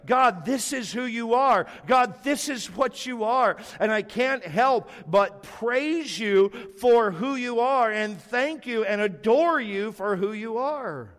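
lightly voiced worshipful prayer, slow; adoring prayer. Shown as a demonstration. Pastor models adoration for his congregation, slow and earnest. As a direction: speak to God in awe. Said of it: "It's worship to him".

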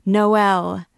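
high, loud call of an acclaiming crowd; crowd's cry. A narrator's reading. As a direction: cry it out like the people cheering. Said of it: "cried the people in their turn".

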